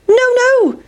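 sing-song no; pancake crying no. A narrator's reading. Pancake refuses the farmer, high and squeaky. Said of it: "said the big pancake".

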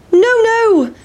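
a saucy little refusal; pancake refusing. Acted. Pancake taunting the boys, high squeaky voice.

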